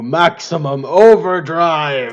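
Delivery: slow dramatic announcement. Acted. Ramping up the noogie.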